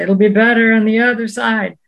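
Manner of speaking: sing-song voice. Retold or imitated. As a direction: lilt it like an old man's singsong saying. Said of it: "he would talk in the sing-song voice".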